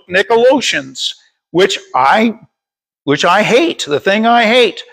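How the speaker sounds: emphatic, steady verse reading; scripture reading. Real, not acted. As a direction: read the warning out to a congregation. Reads scripture aloud to congregation.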